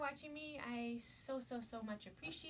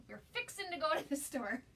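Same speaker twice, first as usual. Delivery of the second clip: put-on Southern accent; 3 semitones higher, 4 dB louder than usual.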